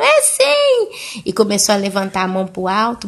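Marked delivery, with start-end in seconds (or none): 0.0-1.2 very high indignant retort; acted outburst. Grandmother insisting against her daughter, high acted retort. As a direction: snap back, hammed-up and shrieky. Grandmother escalating in retold quarrel.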